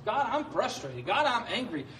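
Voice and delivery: rising plea, pouring out feelings to God; praying emotions aloud. Shown as a demonstration. Preacher demonstrating a prayer to his congregation, rising emotional plea. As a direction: let each feeling spill out to God, climbing in pitch. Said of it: "pray your emotions".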